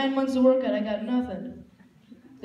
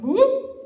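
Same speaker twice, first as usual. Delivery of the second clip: mock whoop; 11 semitones higher, 6 dB louder than usual. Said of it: "I'm swishing the grass, going".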